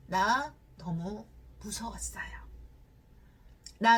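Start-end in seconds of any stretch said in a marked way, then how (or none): 0.1-2.2 slow whisper of fear. Retold or imitated. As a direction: let it out slowly with no voice. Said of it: "그 자매는 어떻게 이야기를 했냐면".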